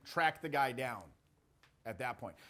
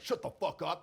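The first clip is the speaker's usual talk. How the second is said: not angry. Shown as a demonstration. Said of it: "Not angry, like".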